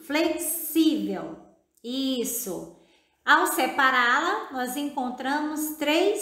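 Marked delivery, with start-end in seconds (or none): 0.1-1.4 "flexível" slowly, leaning on "xí"; stressed syllable. Shown as a demonstration. Teacher points out the tonic syllable, slow stressed "flexível". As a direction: draw out "flexível" to show its tonic "xí". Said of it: "a sílaba tônica".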